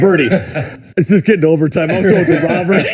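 chuckling through the quote; laughing through it. Retold or imitated. Retelling his plea to Bertie, laughing. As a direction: let the laugh spill into the words. Laughing while quoting himself.

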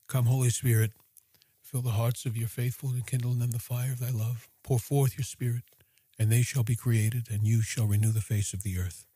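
low, even recited prayer. Real, not acted. Host opening a guided Rosary meditation with a prayer, prayerful.

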